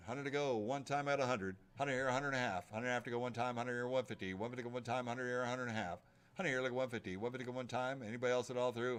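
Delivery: rapid rhythmic bid calling; auctioneer. Real, not acted. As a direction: rattle off the bids like an auctioneer.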